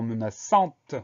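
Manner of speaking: "menaçante" with its final T clearly heard; sounded final T. Shown as a demonstration. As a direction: release the T ending "menaçante". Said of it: "un T qu'on retrouve dans".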